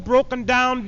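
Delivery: ordinary talk, nothing marked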